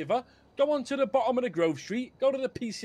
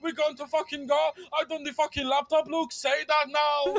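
high, smug mock of the traitor; 5 semitones higher than usual. Mimicking the deserter returning to brag, high mocking voice. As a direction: imitate him bragging back. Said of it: "And fucking come back".

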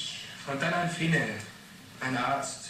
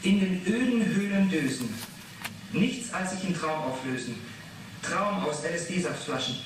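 quoting the poem; 3 semitones higher than usual. Acted. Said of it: "Diese Zeile".

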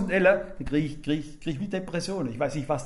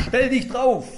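firm command; 4 semitones higher, 5 dB louder, slower than usual. Retold or imitated. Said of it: "hat gesagt".

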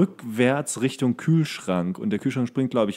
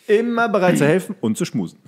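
higher, louder mock movie line; film quote; 7 semitones higher, 5 dB louder than usual. (gespielt übertriebenes Filmzitat)

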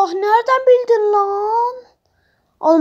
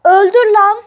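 defiant; 7 dB louder than usual. Real, not acted. Defiant toward captor.

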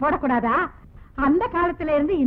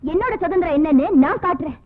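louder, threatening retort; angry threat; 2 semitones lower, 6 dB louder than usual. Acted. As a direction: snap back and threaten. Angry neighbour threatens actor. (கோபத்துடன் சத்தமாக மிரட்டல்)

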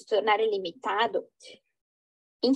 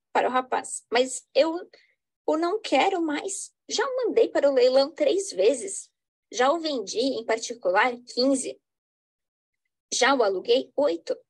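dramatic reading. Acted. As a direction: lively play reading with characters voiced. Reads Portuguese play with stage directions.

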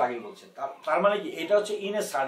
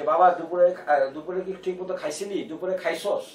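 mother's dialect; 3 dB louder than usual. Retold or imitated. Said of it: "আমার মা যখন আমাকে বলে".

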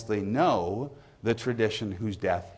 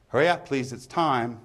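high, loud call across the pub; barman's closing call; 4 semitones higher, 4 dB louder than usual. Acted. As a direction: call time on the drinkers. Barman's closing call within the poem.

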